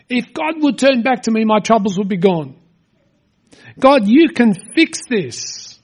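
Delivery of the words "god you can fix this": pleading faith. Retold or imitated. Voicing David's plea.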